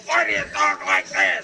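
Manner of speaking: imitating the girl. Man retells the girl's question, low imitation. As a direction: drop low to quote her question. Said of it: "have this girl, like, say".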